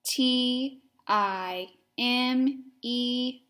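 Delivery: each letter spelled out slowly; slow spelling. Shown as a demonstration. Teacher leading children in slow spelling.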